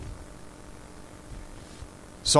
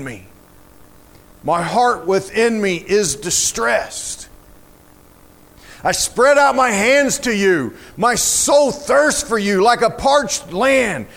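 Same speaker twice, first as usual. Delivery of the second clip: dramatic psalm reading; 3 semitones higher than usual. Acted. Preacher reading of a fainting spirit begging God, dramatic lament. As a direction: begin faint, rise pleading, drop at the end.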